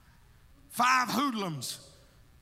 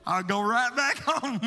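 laughing; 4 dB louder than usual. Retold or imitated. Laughs while retelling his prayer.

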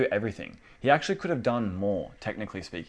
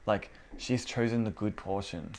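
softer gentle Jesus, understated; 5 dB quieter than usual. Retold or imitated. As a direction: ease her down kindly, no rebuke. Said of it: "He just kind of gently just goes".

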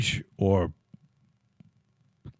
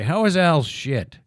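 higher, slower eager asking; eager question; 5 semitones higher, 4 dB louder, slower than usual. Retold or imitated. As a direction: ask it keen, drawn out. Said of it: "and then I'd say".

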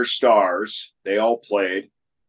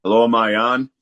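phone held away; 2 semitones higher, 5 dB louder, faster than usual. Real, not acted. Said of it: "put your microphone down and talk into the phone".

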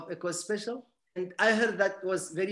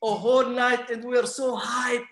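louder and higher, hyped up; excited; 3 semitones higher, 3 dB louder than usual. Real, not acted. Guest recalls eating pecan pie with his friend, excited. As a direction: relive the thrill of that night.

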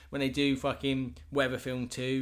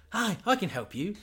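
higher, slow cheery doctor; mock doctor; 7 semitones higher, slower than usual. Doc Smith greeting a wounded patient, higher and cheery. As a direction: welcome them in like a chirpy doctor.

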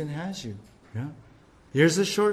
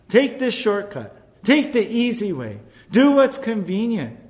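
enemy's coaxing voice; 4 semitones higher, 4 dB louder than usual. Acted. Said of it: "Doesn't the enemy come to us?".

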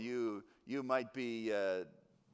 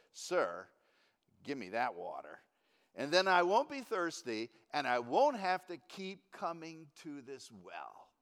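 sarcastic. Acted. Woman at the well answering Jesus, sarcastically. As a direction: scoff at the offer. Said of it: "in a more sarcastic tone".

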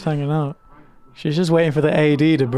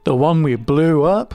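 knowing mock repeat; 3 dB louder, slower than usual. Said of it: "Wink, wink".

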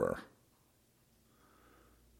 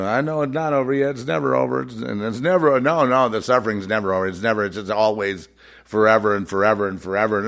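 quick, slightly raised mock lament; mock complaining believer; 2 semitones higher, 3 dB louder, faster than usual. Mimicking people who say suffering never ends, mock lament. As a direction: rattle it off as an insistent complainer. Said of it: "And people".

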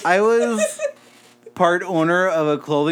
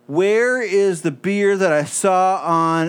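drunk-sounding impression; slower than usual. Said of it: "your impression of".

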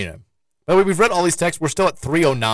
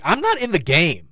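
higher-pitched mock protest to the coach; retold protest; 6 semitones higher than usual. Benched player answering a yelling coach, mock protest. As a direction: protest as if wrongly blamed.

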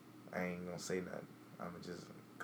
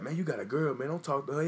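mock lecture; 6 semitones higher, 7 dB louder than usual. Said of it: "I ain't gonna come to you and be like".

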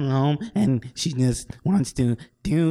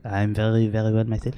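put-on French accent; 5 semitones lower than usual. Plays a French guest.

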